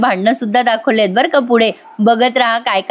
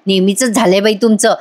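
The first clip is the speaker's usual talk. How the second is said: irritated snapping; 4 semitones higher than usual. Retold or imitated. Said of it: "कल्पनाताई चिडतात".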